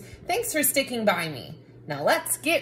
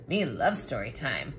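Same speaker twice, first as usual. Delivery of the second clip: low, cookie-monster-style growl; a hungry monster who loves stories; 9 semitones lower, 4 dB quieter than usual. Acted. Monster character interrupts.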